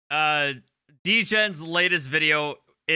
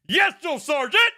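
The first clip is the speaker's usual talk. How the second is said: high laughing "yes, Drill Sergeant"; mock recruit reply; 12 semitones higher, 5 dB louder than usual. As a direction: answer like a cowed recruit, laughing. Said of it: "sounds like a fucking drill sergeant".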